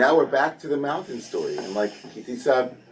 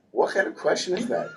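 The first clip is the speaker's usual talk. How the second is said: incredulous laugh; 9 semitones higher than usual. Retold or imitated. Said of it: "the Midrashim are like".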